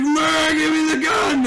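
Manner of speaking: high, loud mock holler; imitated drunken demand. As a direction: demand it like a hammered buddy. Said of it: "he's fucking hammered at this point".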